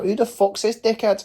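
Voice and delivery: high-pitched mock outrage; imitated angry Manchester lad; indignant heckler. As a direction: call it out like an affronted inmate. Manchester guys shouting back at window.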